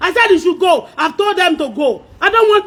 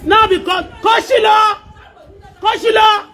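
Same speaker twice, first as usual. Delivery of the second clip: real heated outburst; furious, indignant complaint; angry shouting. Real, not acted. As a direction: drive them away with a raised voice. Real quarrel, ordering them away.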